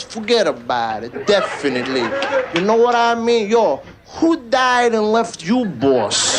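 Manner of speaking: stretched, punchy Italian-American catchphrases; wiseguy Italian-American with big pitch swings; Italian-American accent. Shown as a demonstration. Teacher at the school for Italians, Italian-American accent. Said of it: "how to say all the catch Italian phrases".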